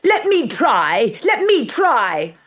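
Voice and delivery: high, loud, slow laughing plea; eager begging. A narrator's reading. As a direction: grab for the slipper. Bertha grabs for the slipper.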